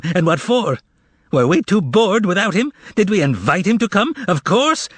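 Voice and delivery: high mocking complaint; indignant harangue. Korovyov haranguing the shoppers, high and indignant. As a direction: stir the crowd against him.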